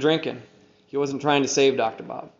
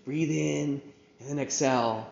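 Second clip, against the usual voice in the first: little daughter voice; 4 dB quieter than usual. Retold or imitated. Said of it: "my little daughter Fiona's out there and she's like".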